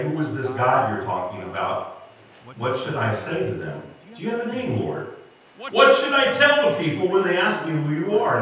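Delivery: passive-aggressive whine. Retold or imitated. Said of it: "he does it very passive-aggressively".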